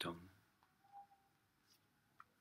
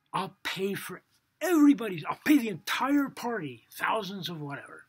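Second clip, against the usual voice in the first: higher, louder frantic pleading; desperate begging; 8 semitones higher, 8 dB louder than usual. Acted. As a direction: beg loudly as if everything is lost. Humiliated guest begging desperately.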